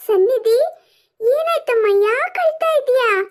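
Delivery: worried mum asking gently; concerned mother. Acted. Mother asks her crying daughter what happened, concerned.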